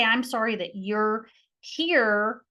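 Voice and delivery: slow, gentle apology; sincere apology. Shown as a demonstration. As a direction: apologize slowly to the party. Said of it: "Okay, I can say".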